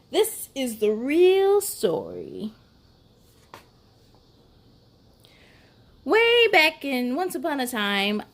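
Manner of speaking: sly wolf narrator telling his side; wolf storyteller. Acted. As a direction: read it as the innocent wolf pleading his case.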